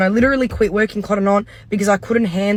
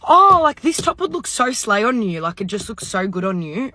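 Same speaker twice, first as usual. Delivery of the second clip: gushing flattery. Retold or imitated. Imitating the assistant's gushing flattery.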